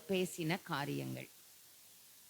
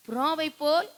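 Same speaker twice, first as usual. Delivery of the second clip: higher, pained lament; lamenting cry; 6 semitones higher, 3 dB louder than usual. Acted. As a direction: cry it out in pain. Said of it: "என்ன செய்தாராம்?".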